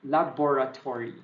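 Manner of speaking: laboratory as la-BO-ra-to-ry; stressed O pronunciation. Shown as a demonstration. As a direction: say laboratory carefully with the first o clear. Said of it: "just stress the O there".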